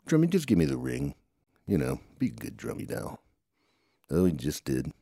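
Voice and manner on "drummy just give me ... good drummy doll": high sweet coaxing, like talking to a pet; asking the doll nicely for the ring, coaxing high. Acted. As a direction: wheedle the doll into handing it over.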